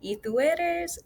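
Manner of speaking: a sly jab at a stranger; throwing shade. Acted. Daniela throwing shade at the random guy, pointed. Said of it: "throws a little bit of shade".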